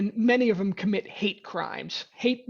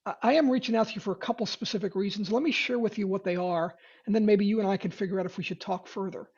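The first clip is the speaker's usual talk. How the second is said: calm honest opener. Shown as a demonstration. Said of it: "it might sound like".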